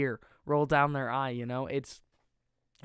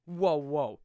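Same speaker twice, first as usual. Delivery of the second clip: amazed whoa. Retold or imitated. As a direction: react like you can't believe what you just saw. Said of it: "And I was like".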